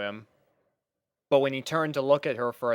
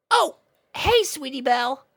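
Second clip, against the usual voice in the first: very high, casual dragon voice; Spike's greeting; 14 semitones higher, 4 dB louder than usual. Acted. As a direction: greet her easily. Spike greets Sweetie Belle.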